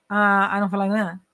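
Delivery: "I don't feel like doing that" run into one mumble; slurred example. Shown as a demonstration. Teacher demonstrates speech clients can't follow, words slurred together. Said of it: "se eu falar assim".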